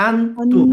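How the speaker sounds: আনতুম with a clear throaty আ at the start; clear ain. Shown as a demonstration. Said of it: "আয়ের উচ্চারণটা clear".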